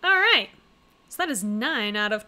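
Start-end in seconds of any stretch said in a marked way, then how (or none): 0.0-0.5 excited all right. Real, not acted. Reacting after the scene.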